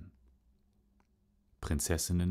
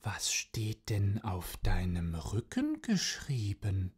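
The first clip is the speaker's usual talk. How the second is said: Katze; 3 semitones higher than usual. Acted. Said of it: "Die Katze fragte".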